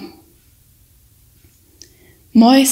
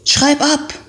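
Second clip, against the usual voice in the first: whispered; 5 semitones higher than usual. A narrator's reading. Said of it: "flüsterte sein Kamerad zurück".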